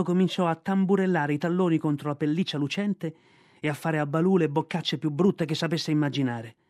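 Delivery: usual speaking voice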